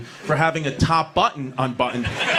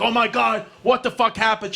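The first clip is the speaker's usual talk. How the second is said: shocked; 6 semitones higher than usual. Retold or imitated. Shocked at mom's bloody knee.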